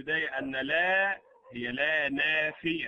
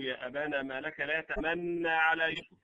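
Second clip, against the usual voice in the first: Quran recitation. Shown as a demonstration. Teacher reciting the verse to students, in measured recitation. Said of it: "قالوا".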